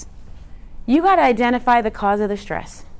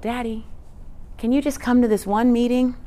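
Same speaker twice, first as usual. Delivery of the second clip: lightly voiced daughter, a little higher; daughter's sweet plea; 4 semitones higher than usual. Daughter calls Daddy to ask him to a meeting, mock sweet plea. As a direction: imitate a daughter gently coaxing her father. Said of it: "heard her sweet voice".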